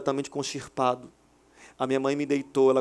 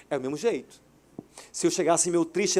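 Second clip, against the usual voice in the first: ordinary talk, nothing marked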